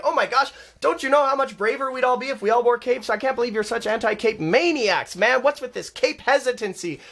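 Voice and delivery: hammed-up preachy nag; mocking a preachy cape wearer; mock berating. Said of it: "I might berate them in a store and be like".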